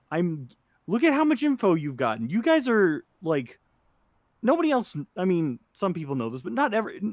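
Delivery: high-pitched, flustered pleading; flustered overcompensation. Acted. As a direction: stumble over it, pitch jumping up. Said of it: "he gets too loud to overcompensate".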